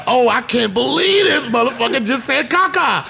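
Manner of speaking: mock son, giggling in disbelief; laughing disbelief. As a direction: crack up while voicing the outraged kid. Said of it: "He was like".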